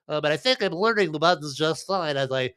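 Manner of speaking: a light nerdy voice. Acted. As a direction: put on a nerdy voice. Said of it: "as I use my nerdy voice".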